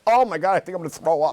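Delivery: high, loud panicked imitation; hammed-up horror at sudden news; mock panic. Husband hearing his wife is pregnant, mock panicked.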